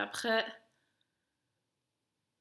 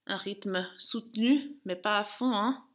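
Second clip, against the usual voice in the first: loud coaching; 7 dB louder, slower than usual. Real, not acted. Coach instructs pace during interval.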